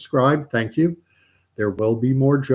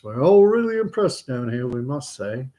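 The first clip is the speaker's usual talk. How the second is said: lightly voiced chapel response; schoolboys repeating prayer. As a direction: echo the prayer line in a raised voice. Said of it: "All the kids".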